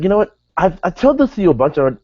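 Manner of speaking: high-pitched mock complaint; imitated exasperation. Retelling Kevin scolding Del Rio, high imitated exasperation.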